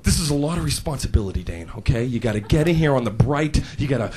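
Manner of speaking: low, earnest manager giving instructions; grave mock-managerial briefing; serious boss. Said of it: "My boss was really serious".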